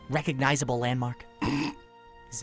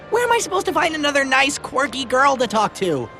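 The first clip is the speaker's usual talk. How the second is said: sarcastic; 6 semitones higher, 7 dB louder than usual. Acted. Complaining after being left alone.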